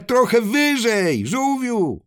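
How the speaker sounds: high-pitched call upward; shouting back. Acted. Animals to the flying turtle, calling back high. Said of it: "odkrzyknęły zwierzęta".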